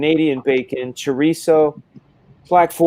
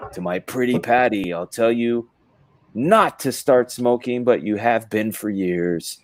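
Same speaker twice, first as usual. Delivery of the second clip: Frank Miller; 2 semitones lower than usual. Acted. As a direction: drop into a brooding pulp-author voice. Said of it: "read it in his voice".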